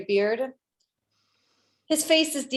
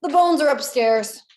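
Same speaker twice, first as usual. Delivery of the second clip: put-on old carpenter; 5 semitones higher, 7 dB louder than usual. Old man gives in.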